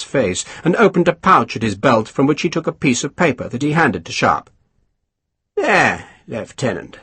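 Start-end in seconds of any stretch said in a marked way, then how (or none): 5.6-7.0 silkily. Acted. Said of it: "he said silkily".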